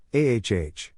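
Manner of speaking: sudden agonized yell; pained cry out. A narrator's reading. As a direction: cry out as the leg is cut. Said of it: "he cried out".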